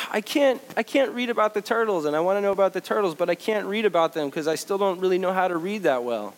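imitating upset child. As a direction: play the frustrated first grader.

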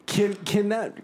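squeaky mock plea; high pleading squeak. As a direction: beg in a tiny high voice. Pleading joke request.

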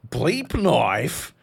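loud mock reverence, drawn out; awestruck knife sharpener. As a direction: gush over the blade like a fan. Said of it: "This dude was like".

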